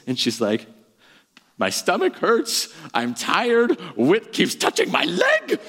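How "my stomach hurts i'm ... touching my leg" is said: put-on high, whimpering tired little girl; whiny sobbing daughter. Dad imitating his seven-year-old crying in the car. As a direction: imitate a worn-out kid whining from the back seat. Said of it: "Rosie just starts sobbing".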